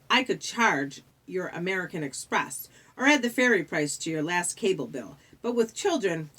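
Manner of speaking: lightly voiced smooth British official; bureaucratic British ferryman. The ferryman asks the children for fares, smoothly officious. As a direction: play a condescending underworld clerk.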